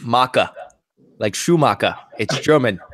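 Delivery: lightly put-on Scottish accent; Scottish-accented dwarf explaining himself. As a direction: play it with a hint of Scottish. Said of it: "but a Scottish accent".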